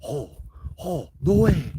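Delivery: hushed "oh" rising to a high exclamation; awestruck disbelief. Retold or imitated. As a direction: build from stunned to high-pitched disbelief. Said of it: "his eyes went wide".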